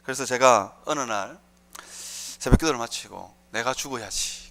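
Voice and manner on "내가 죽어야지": low, softened thinking aloud; retold inner thought. Preacher recalling his resolve after dawn prayer, quiet inner thought. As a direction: say it lower and softer, to yourself. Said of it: "그 생각이 들었어요".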